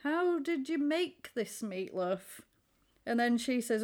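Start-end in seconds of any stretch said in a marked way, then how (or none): 0.0-2.4 feigned politeness. Retold or imitated. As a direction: imitate polite praise you don't quite mean. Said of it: "doesn't look overly enamoured with it".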